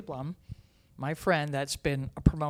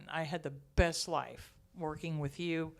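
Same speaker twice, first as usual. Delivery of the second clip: getting emotional. Real, not acted. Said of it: "I'm getting emotional again now".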